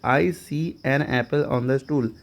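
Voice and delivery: slow, spelled-out example sentence; slow, clear classroom reading. Shown as a demonstration. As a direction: read it slowly so learners follow. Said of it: "example sentence read out".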